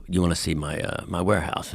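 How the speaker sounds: a hint of a low-voiced host; Gene Simmons. Rock star offers a warehouse tour, lightly imitated low voice. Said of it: "my impression".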